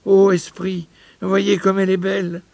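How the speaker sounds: high-pitched, emotional exclamation; impassioned cry. A narrator's reading. Old miser sees his lost fiancée, crying out emotionally. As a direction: cry it out, softening on the final name. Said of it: "s'écria Paul".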